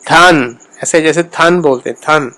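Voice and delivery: تھن with a breathy aspirated t; تھن, Persian-style aspirated t. Shown as a demonstration. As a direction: say تھن with a puff of air on the t. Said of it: "فارسی میں اس کو بولیں گے تو وہ ایسا بولا جائے گا جیسے".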